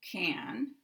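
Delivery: can as a lone word, full short-a vowel. Shown as a demonstration. Teacher saying the word alone, not in a sentence, full-vowel can. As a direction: give can its whole dictionary vowel. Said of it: "this pronunciation with the full vowel".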